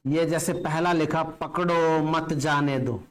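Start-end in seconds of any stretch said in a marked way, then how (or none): 1.2-3.0 "पकड़ो मत जाने दो" slowly in one run; no comma pause. Shown as a demonstration. Teacher reading the unpunctuated sentence to students, running it together. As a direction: read "पकड़ो मत जाने दो" without any break. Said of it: "ये sentence तो बिल्कुल गलत है".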